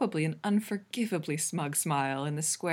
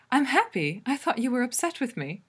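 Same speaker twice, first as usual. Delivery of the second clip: higher, louder happy relief; 6 semitones higher, 4 dB louder than usual. A narrator's reading. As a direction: explain with light, high-pitched relief. Allura happily explains after laughing.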